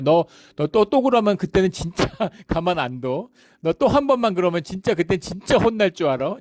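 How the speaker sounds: a hint of a stern mother, pitched a little up; mock scolding mother. Preacher imitating a mother scolding her seven-year-old, lightly stern. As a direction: threaten like a mum who won't really punish. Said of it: "엄마가 뭐라 그래요".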